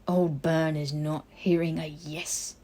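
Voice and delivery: put-on a disapproving old elf keeping order; stern house elf. House elf figure voiced.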